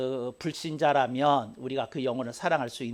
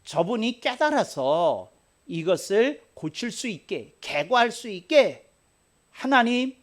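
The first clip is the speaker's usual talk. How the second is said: fervent prayer; 5 semitones higher, 4 dB louder than usual. Shown as a demonstration. Pastor modelling a prayer for an enemy, high and pleading. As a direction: pray earnestly for the other person. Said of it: "하고 네가 기도해야 되는 것".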